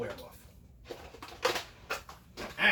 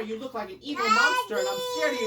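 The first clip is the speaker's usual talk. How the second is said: scared, tearful princess; 10 semitones higher, 6 dB louder than usual. Acted.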